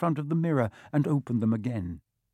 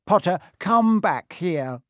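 loud, raised, drawn-out command; shouting; 5 semitones higher, 6 dB louder than usual. A narrator's reading. Quirrell calls Harry back, shouting. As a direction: shout after the boy to return. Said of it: "Quirrell shouted".

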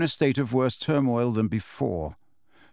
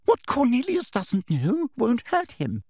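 slow, higher, sugary menace; Umbridge gloating; 10 semitones higher than usual. A narrator's reading. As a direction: savour every word.

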